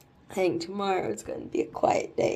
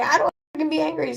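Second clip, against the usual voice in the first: frustrated outburst; 8 semitones higher, much faster than usual. Retold or imitated. Retold frustrated inner outburst.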